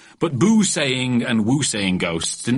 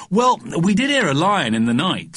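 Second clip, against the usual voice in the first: put-on higher-pitched, eager child; boyish, raised voice; little boy explaining; 8 semitones higher, 4 dB louder than usual. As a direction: offer it up in a kid's voice.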